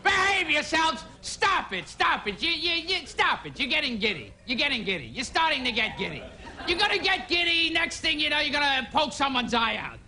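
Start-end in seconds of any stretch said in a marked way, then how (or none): 0.0-6.2 mock scolding. Gilbert scolding the applauding audience.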